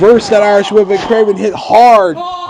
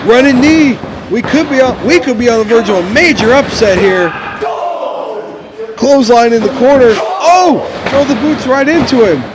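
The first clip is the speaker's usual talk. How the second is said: excited commentator; 4 semitones higher than usual. Acted. Rising near-fall excitement in commentary.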